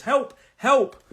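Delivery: high, loud cry for help; mock danger call. Shown as a demonstration. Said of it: "If there's something dangerous".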